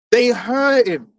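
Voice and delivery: slow, heavy shout on hurt; emphatic slow shout. Real, not acted. Ranting about Esau's envy.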